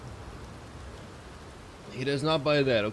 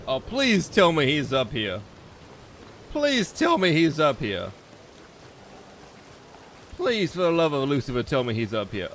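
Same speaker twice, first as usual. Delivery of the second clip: mock pleading; 4 dB louder than usual. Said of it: "be like".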